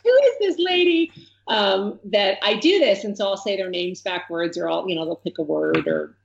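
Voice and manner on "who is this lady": put-on high, wondering kid voice; puzzled kid voice. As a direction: ask it like a baffled schoolkid. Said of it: "kids who are like".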